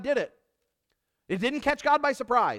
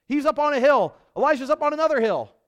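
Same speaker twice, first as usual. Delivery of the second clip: louder, higher, driving the story; loud dramatic storytelling; 6 semitones higher, 6 dB louder than usual. Acted. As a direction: tell it big and loud to the room.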